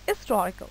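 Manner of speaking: हिस्टोरिकल with the stress on the i, the h nearly silent; stress on second syllable. Shown as a demonstration. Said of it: "सिट्रस जो है वो आई पे आ जाता है".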